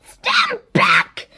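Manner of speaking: high shouted warning; high-pitched alarmed call. A narrator's reading. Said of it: "as Sponge shouted".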